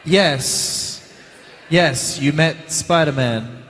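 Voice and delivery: lightly voiced mum, slowly going along with it; halting, indulgent mock-parent reply; humouring mum. Mum answering her son's Spider-Man claim, mildly humouring him. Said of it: "And the mum was like".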